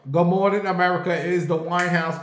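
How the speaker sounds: mock host opening, announcing to the audience; talk show host. Dreaming of hosting with Sherri Shepherd, hammed-up host opening. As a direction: pitch it up like opening a morning show.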